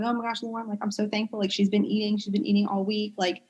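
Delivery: soft, hushed retold thanks; quietly overwhelmed parents; grateful parents thanking the therapist, soft and teary; tearful gratitude. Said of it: "had tears in their eyes".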